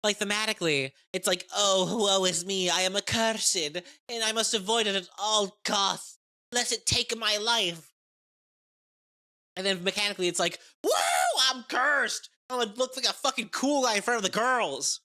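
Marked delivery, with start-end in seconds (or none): 1.5-7.9 slow, higher, hammed-up woe; mock tragic lament. Cursed hero lamenting his fate, hammed-up and slow. 10.8-15.0 much higher, shouted glee; hyped shout. Retold or imitated. Cursed fighter showing off for the girls, whooping.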